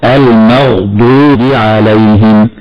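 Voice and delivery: slow "المغضوب" with full emphatic ض; heavy Dad. Shown as a demonstration. Sheikh showing the correct way, "المغضوب" with heavy ض. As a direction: recite "المغضوب" slowly, thickening the ض. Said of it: "هكذا مرة أخرى".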